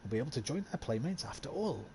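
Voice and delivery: newsreader voice, lightly performed; news read. Acted. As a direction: read it like a period newspaper item. Reads in-game newspaper aloud.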